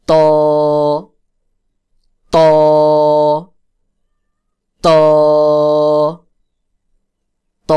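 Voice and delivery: ত pressed hard behind upper front teeth, rounded and held; firm heavy to. Shown as a demonstration. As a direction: press the tongue firmly for a heavy, long ত. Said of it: "একটু শক্ত করে হবে".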